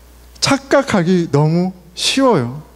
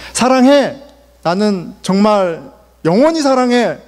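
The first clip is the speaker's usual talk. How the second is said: sincere love vow; 3 semitones higher than usual. Retold or imitated. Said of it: "진심으로 얘기했어요".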